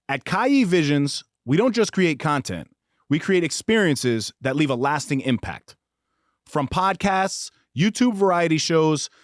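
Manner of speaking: upbeat sponsor ad read. Acted. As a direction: sell it like a promo spot. Reads sponsor ad.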